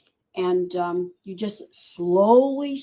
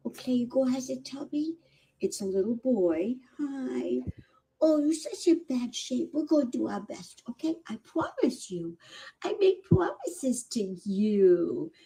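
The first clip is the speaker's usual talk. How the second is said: tender pet talk; 4 semitones higher, 3 dB quieter than usual. Real, not acted. Rescuer comforting a sick kitten.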